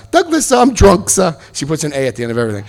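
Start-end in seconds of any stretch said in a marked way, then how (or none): 0.1-1.3 much higher, slurry mock drunk; hammed-up drunk imitation; drunk wife. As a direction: do the wife tipsy and proud of it. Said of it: "She calls me Douglas, sir".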